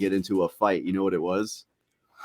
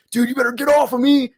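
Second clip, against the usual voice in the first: higher, louder pinned friend; 13 semitones higher, 7 dB louder than usual. Retold or imitated.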